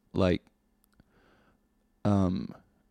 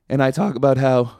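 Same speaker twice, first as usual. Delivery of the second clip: voice crack; 2 semitones higher, 5 dB louder than usual. Real, not acted. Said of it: "you hear my voice crack there?".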